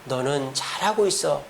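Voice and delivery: soft, slow tender reassurance; slow down and soothe; gentle comfort. Acted. Angel telling Elijah he's doing well, soft slow comfort. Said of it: "엘리야에게".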